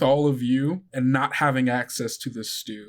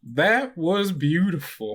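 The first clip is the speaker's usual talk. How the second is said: slow, higher, laughing through mock tears; teary bus driver; 5 semitones higher, slower than usual. Driver Lucy to the kids, hammed-up teary gush. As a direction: gush it out, half laughing, slowly. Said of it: "also wiping tears from her eyes".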